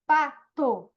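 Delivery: "pato" com o "to" final separado; final da palavra destacado. Shown as a demonstration. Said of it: "Rima sempre vai ser o final". ("pato" dito em duas partes, destacando "to")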